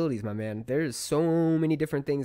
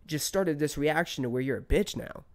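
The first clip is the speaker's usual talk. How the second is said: higher-pitched, exasperated retold questions; indignant questioning; 5 semitones higher than usual. Man replaying what he wanted to ask a rude stranger, exasperated. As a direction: pile up the questions in mock interrogation.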